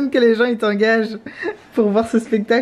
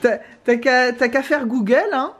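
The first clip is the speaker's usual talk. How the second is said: put-on old man voice. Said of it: "On continue de parler comme des vieux".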